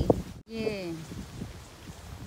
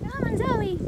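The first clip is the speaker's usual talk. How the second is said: calling out; 11 semitones higher than usual. Real, not acted. Calling the dog.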